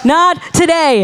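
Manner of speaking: same words repeated with a laugh, relaxed; laughing echo. Real, not acted. Preacher repeats her defiance to the church, laughing. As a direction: laugh it off after the shout. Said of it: "the dark side was not going".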